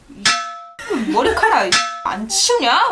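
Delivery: slow, dragged-out mock scolding. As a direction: drag out the complaint like nagging. Retold sister yelling about hair.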